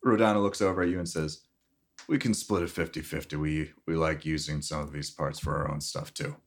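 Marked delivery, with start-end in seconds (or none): 2.1-6.4 raspy chain-smoker voice; smoker's rasp. Acted. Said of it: "Rodana sounds like a chain smoking man".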